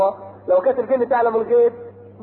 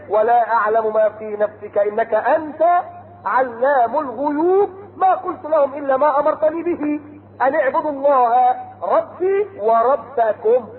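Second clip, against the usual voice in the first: slow chanted verse; Quran recitation; slower than usual. Acted. Preacher reciting Noah's words to his people, chanted. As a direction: intone it like a reciter.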